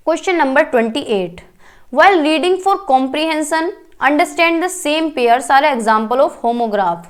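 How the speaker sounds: reading the exam question aloud, word by word; slow question read-out. Acted. Teacher to students, reading the question slowly. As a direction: spell the question out slowly for the class.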